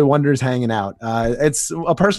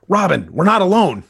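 alarmed warning; 7 semitones higher, 4 dB louder than usual. Acted. Nightwing warns Robin of attackers.

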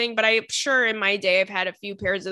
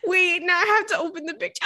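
excited dread; 7 semitones higher, faster than usual. Real, not acted. Bracing to open a photo.

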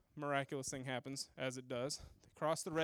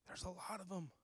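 desperate Moses; 10 dB quieter than usual. Retold or imitated. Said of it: "Then Moses cried to the Lord".

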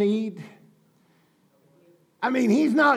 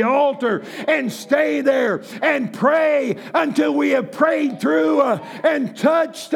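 preaching at full force; 3 semitones higher than usual. Acted. Preacher urging the congregation to pray through. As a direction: drive it home from the pulpit.

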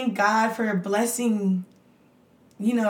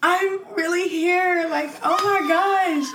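ecstatic; 3 semitones higher, slower than usual. Real, not acted. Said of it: "I am so ecstatic".

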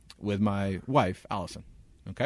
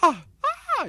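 short high mock moans; mock loud moaning; 7 dB louder than usual. Storyteller imitating the louder female voice, mock moaning. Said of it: "this is exceptionally loud".

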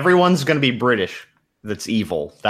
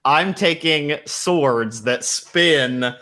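mock player request; 3 semitones higher, much slower than usual. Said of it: "Not one person said".

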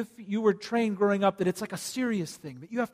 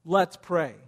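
eager; 5 dB louder than usual. Pretend. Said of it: "I want you to say it".

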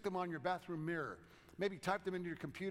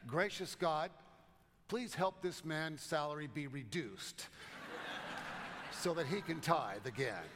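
strong praying voice. Retold or imitated. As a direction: pray it out boldly like a chaplain, then laugh. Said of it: "began in a very strong voice".

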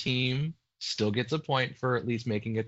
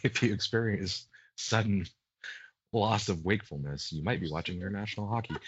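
rapid, softer ad fine print; fast legal disclaimer; 4 semitones lower, 3 dB quieter, faster than usual. Pretend. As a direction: rattle it off like a drug ad warning. Mock drug side-effect disclaimer.

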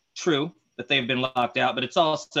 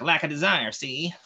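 1920s villain voice; 3 semitones higher, slower than usual. Shown as a demonstration. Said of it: "nineteen twenties villain voice".

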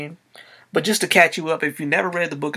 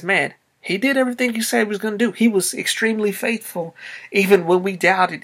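higher, fast, amazed mock praise; grateful amazement; 4 semitones higher than usual. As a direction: burst out in thankful wonder. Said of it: "because they realized".

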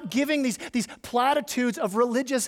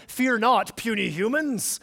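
mock scornful god. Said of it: "Don't read that as".

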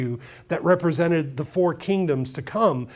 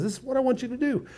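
a commanding call to thunder, higher than the preacher's own; God commanding; 4 semitones higher, faster than usual. Retold or imitated. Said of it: "he says".

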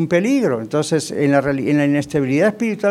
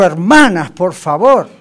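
stern rebuke; 5 dB louder, slower than usual. Retold or imitated. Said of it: "Él las tuvo que reprender".

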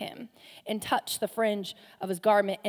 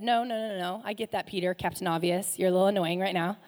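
annoyed Jesus; 3 semitones lower than usual. Retold or imitated. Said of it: "that's why I say it like that".

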